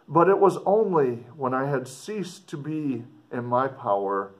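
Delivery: put-on measured read-aloud of an old letter. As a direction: read it like the writer speaking to his sister. Teacher continues reading the letter.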